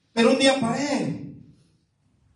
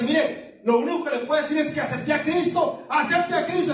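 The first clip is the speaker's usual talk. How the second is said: retold own answer; 7 semitones higher than usual. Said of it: "Decía".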